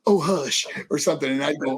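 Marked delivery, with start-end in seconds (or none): 0.1-0.7 lightly camp catchphrase; a touch of showy sass; flamboyant. Retold or imitated. Mentor showing rookie the catchphrase, mildly flamboyant. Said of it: "he'd just be real flamboyant".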